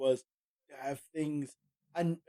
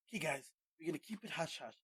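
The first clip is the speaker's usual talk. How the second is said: mock secretive; 11 dB quieter than usual. Company plotting in secret, acted.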